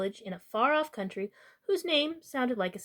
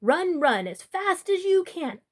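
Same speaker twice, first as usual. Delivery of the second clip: slow, high, louder taunt; showing off; 7 semitones higher, 4 dB louder, slower than usual. Acted. Boy taunting the Yenta's children, slow high show-off sing-song. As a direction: draw it out to show off. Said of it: "just to show off".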